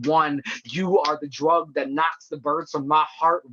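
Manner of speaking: driving, insistent spoken-word reading; poem recitation. Acted. Poet at an online reading addressing a beloved, urgent recitation.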